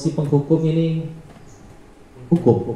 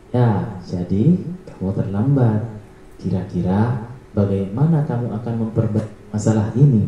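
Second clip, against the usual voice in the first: sincere tone; 4 semitones lower than usual. Shown as a demonstration. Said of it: "nada suara tulus".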